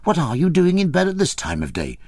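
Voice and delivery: put-on big peasant girl aghast at the starving man; shocked peasant girl. A narrator's reading. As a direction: fuss over him in high alarm. Maria voiced, shocked.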